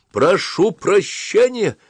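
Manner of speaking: high, loud, slow shout; captain yelling an apology at departing soldiers. A narrator's reading. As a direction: shout the apology after the leaving men. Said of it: "закричал ротмистр".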